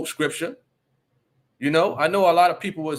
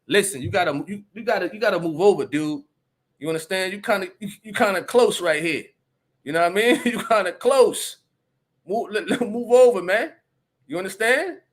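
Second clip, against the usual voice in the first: commanding, firm, a bit raised; firm with authority; 4 semitones higher than usual. Retold or imitated. Telling the man at the checkout to back off, firm and authoritative. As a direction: lay down the law like a real man. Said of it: "I came with some authority".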